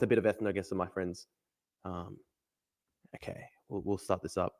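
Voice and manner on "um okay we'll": ordinary delivery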